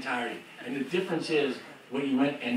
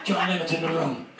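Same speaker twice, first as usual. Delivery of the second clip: builds from plain to very high loud yelling yeahs; excited rock star; 7 semitones higher, 10 dB louder than usual. Retold or imitated. Rock star hearing the song, building to ecstatic shouts. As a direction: start calm, then explode with joy.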